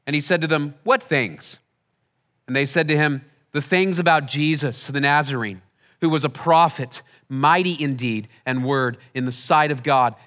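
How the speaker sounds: measured public reading of scripture. A narrator's reading. Preacher reads the Emmaus road story to the congregation, measured scripture reading. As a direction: read the passage aloud, phrase by phrase. Reads a Bible passage aloud.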